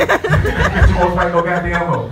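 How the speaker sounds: slowed, dragged-out payoff line; slow punchline. Acted. Comic repeating the punchline to the crowd, slow and dragged out.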